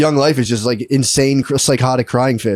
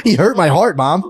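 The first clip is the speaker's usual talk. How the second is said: higher-pitched wounded child imitation; hurt little kid; 3 semitones higher, slower than usual. Cousin's kid complaining to Mom, higher hurt voice. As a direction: whine it to Mom like a small boy.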